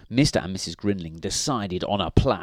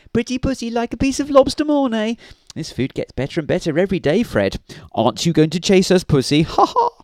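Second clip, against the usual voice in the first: high, loud, fast mocking bird voices; squawky teasing ending in mock laughter; taunting seagulls; 11 semitones higher, 7 dB louder, faster than usual. A narrator's reading. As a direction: jeer at the cat like gleeful gulls. Seagulls taunting the seasick cat.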